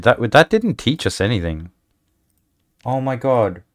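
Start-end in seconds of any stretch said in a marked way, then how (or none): 2.8-3.6 excited high squeal; thrilled yelp at a win; shrieking jackpot winner. Real, not acted. Excited game win reaction.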